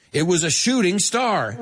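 laughing through the punchline; can't hold the laugh in. Real, not acted.

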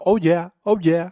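slow, high mock game shout; drawn-out oh yeah like a game character; hammed-up game catchphrase; imitating the game voice. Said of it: "Él dice mucho".

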